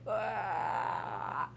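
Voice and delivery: a big stretched-out yawn sound; imitated yawn. Shown as a demonstration. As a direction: yawn it out wide like a dog. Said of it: "really big, like this".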